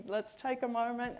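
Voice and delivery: a barely-there Australian accent, half-hearted imitation; lightly put-on Australian accent, mock app greeting; the speaker in a terrible Australian accent. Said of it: "That was my really terrible Australian accent".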